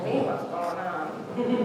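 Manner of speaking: a mother echoing "Hey, what's going on?" slow and flat in disbelief; stunned echo. Retold or imitated. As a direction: repeat his words back, dumbfounded and slow. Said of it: "I'd be like".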